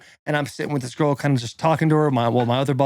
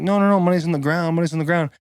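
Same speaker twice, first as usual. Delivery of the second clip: higher, hurried imitation of pleading; raised-pitch, hammed-up defensive denial; mock frantic protest; 4 semitones higher than usual. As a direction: imitate someone fending off an accusation. Girl deflecting an angry accusation, retold.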